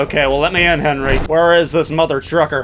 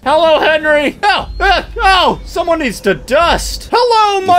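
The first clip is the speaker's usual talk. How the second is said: high silly voice; 12 semitones higher than usual. Pretend.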